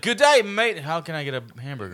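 a hammed-up Australian accent, starting high; imitating a bad Australian accent for a laugh; mock Australian accent. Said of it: "Yes, like that".

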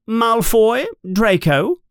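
high, crisp roll call; teacher summoning Draco; stern teacher calling. Acted. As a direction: call the name formally. McGonagall calling names.

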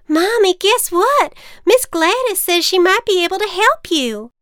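put-on high, loud excited kid; bursting with news; excited child voice. Child telling mother.

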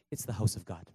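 dropped low and soft, a hushed "house of God"; hushed preacher's aside; soft delivery. Shown as a demonstration. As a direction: let it fall low and quiet. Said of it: "I said it's the house of God".

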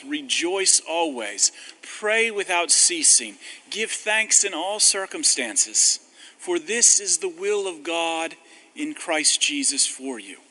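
slow, ringing reading of Paul; solemn scripture reading. Acted. Preacher reading scripture to the congregation, slow and solemn. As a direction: lift the verse out slowly and loud. Reading Paul's letter aloud.

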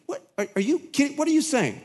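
high, squeaky disbelief; a high incredulous squeal; inner outrage. Retold or imitated. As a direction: pitch it way up in indignant shock. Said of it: "you're thinking".

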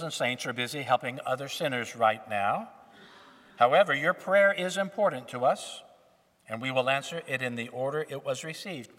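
recorded phone menu greeting. Pretend. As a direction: read it like an automated answering machine. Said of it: "It would say something like this".

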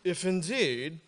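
"If indeed" in a light mock British accent, rising at the end. Shown as a demonstration. Pastor hamming up a verse for the congregation in a British accent. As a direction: put on a playful posh British accent for "If indeed". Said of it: "you have to say that with a British accent".

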